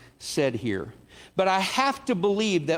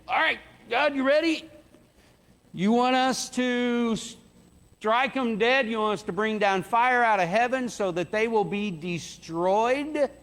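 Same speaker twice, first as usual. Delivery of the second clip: higher, hammed-up, itching for a fight; eager disciples; 5 semitones higher than usual. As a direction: limber up and ask God for permission to smite. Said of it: "imagine them stretching".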